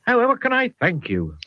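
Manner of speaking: high, grateful West Country voice; an overjoyed Somerset farmer thanking his rescuer. Acted. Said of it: "I think he's from the Southwest".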